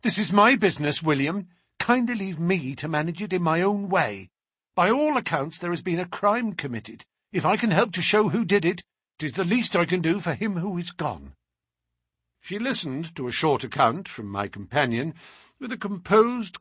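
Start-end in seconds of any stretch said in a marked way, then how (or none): 0.0-11.3 higher and brisk, firmly in charge; sharp, fierce sister. Acted. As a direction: put the brother in his place, sharply. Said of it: "turned a sharp, fierce look upon him".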